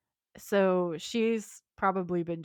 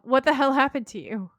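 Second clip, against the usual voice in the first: louder, raised-pitch greeting between friends; mock exclamation; 5 semitones higher, 7 dB louder than usual. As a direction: act out a friend's loud, incredulous question.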